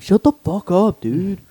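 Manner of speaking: high-pitched mock protest; retold annoyed retort. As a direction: imitate a teased classmate snapping back. Retold reply to being teased.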